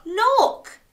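high, loud call to look; urgent exclamation. A narrator's reading. Alarmed Dog points at map.

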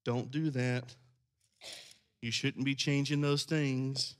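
softly, almost apologetic; a polite scolding with no force; meek mild rebuke. Shown as a demonstration. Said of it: "I don't read".

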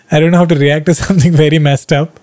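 fast, with a laugh slipping in; nervous laugh at something messed up. Real, not acted. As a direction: rush it as the laugh comes. Laughing while explaining.

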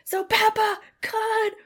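high, slow, cracking with laughter; laughing crying. Real, not acted. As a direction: squeal through laughter.

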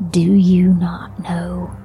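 a hint of a deep warped voice; lightly voiced otherworldly preacher; distorted deep voice. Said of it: "not in Sonya's voice, distorted, deeper".

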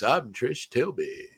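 slow, drawn-out Matt Berry voice; a lightly voiced plummy Matt Berry drawl; Matt Berry impression. Host doing Matt Berry's slow reporter voice for his cohost. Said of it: "it sounds like him doing this voice".

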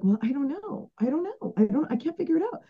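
mock your old stuck self, pleading and helpless; whiny stuck self. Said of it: "it was like".

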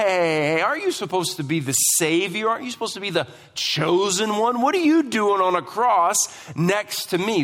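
quick, needling challenge; sarcastic. Acted. Criminal challenging the chosen one on a cross, sarcastically. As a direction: pile up mock questions at him. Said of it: "This is sarcasm".

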